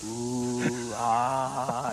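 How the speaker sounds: drawn-out "ooh, ah" of awe; long imitated sigh of wonder; awed ooh and ah. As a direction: imitate a roomful of admirers. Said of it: "everyone looked at it and went".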